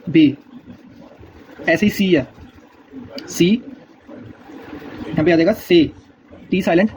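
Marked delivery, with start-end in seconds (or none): 5.5-5.8 से said "say", silent T; German letter C. Shown as a demonstration. Teacher showing learners German C, से as "say". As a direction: say से like English "say". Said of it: "इसकी pronunciation बता रहा हूँ".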